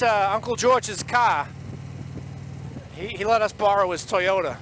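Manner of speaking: put-on thick Boston accent storytelling. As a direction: tell it like a Bostonian. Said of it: "in nothing but the Boston accent for ya".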